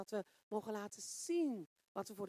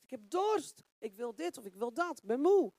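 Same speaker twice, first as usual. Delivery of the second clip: lightly voiced body claiming thirst and tiredness, loud; demanding body; 5 dB louder than usual. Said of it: "Dat lichaam zegt".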